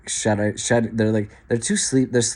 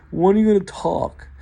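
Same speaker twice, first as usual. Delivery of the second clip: high, impatient mock nag; mocking pushy question; 8 semitones higher than usual. Mocking an adult pressing an autistic kid, high. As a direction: ape the nagging adult, pitched up. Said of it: "all you do is just like".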